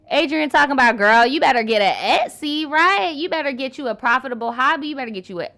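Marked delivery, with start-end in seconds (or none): 1.0-5.5 loud, punchy quoted advice at first, easing off; emphatic urging. Retold or imitated. Quoting a viewer's advice to a woman, emphatic urging. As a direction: urge a girlfriend on, voice raised.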